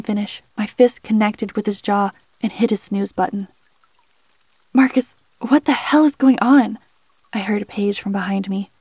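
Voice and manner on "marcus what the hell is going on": shouting. Acted. Character bursts in demanding answers.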